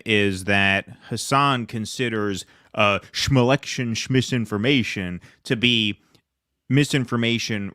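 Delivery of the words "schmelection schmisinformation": slow, dismissive shm-rhyming of the words; mocking shm-words. Host mocks the critic's election misinformation label, dismissively. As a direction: sneer the shm-versions of each word.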